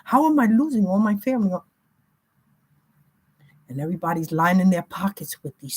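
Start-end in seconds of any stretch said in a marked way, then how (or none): 0.0-1.6 higher, bewildered mock voice of the victim. Mocking the victim losing family, lightly voiced panic. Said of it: "You're saying".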